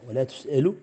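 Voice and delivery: "ولا تسأل" read wala tus'alu, damma on the ta, final lu. Shown as a demonstration. Teacher demonstrates "ولا تسأل" with damma for the student. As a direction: say "تسأل" as tus'alu with a rising end. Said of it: "بضم التاء و-، ورفع اللا".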